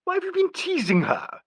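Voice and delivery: high fierce demand. A narrator's reading. Angela confronting Nigel and Alan, fierce. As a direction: demand it sharply. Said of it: "she demanded fiercely".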